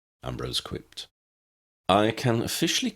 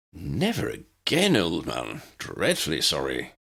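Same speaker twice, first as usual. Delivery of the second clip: mock earnestness; 4 semitones lower than usual. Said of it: "with mock earnestness".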